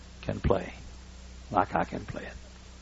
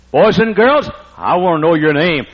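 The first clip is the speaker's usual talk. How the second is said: put-on addressing the kids; 3 semitones higher, 9 dB louder than usual. Shown as a demonstration. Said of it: "Like when I say".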